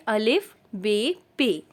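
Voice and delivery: अलिफ, बे, पे said one by one, each distinct; reciting letters. Shown as a demonstration. Teacher reciting the letters in order for beginners, measured recitation. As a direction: list the letters like a drill. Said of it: "इसे पढ़ेंगे अलिफ".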